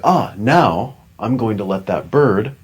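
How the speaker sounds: playful mock-benevolent murmur; mock magnanimous self-talk. Shown as a demonstration. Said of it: "and you say".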